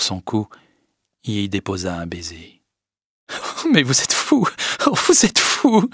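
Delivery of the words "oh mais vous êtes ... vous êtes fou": high-pitched, giggly mock reproach; little laugh. A narrator's reading. Emma to Léon after his kiss, amused little laugh. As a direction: scold playfully through a light laugh. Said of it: "dit-elle avec un petit rire".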